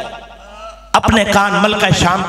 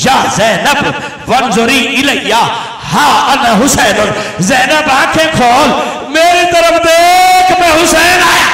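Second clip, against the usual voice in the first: full-force lament preaching; 2 semitones higher than usual. Acted. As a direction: cry the words out to the mourners.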